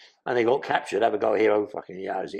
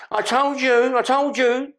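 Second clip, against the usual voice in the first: high urgent Billy; 12 semitones higher, 4 dB louder, slower than usual. Retold or imitated. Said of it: "Billy returns bloodied".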